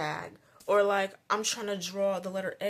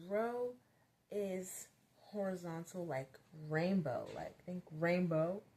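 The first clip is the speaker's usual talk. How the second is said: slow, patient teacher explaining with an image; slower than usual. Shown as a demonstration. Teacher patiently helping a kindergartner picture a row, slow. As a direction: coax a child to picture it slowly. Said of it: "more melodic".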